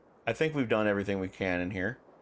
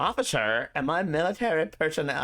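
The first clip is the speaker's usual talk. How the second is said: high-pitched mock Valley Girl accent; hammed-up Valley Girl voice; 6 semitones higher, 3 dB louder than usual. Shown as a demonstration. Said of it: "Valley Girl".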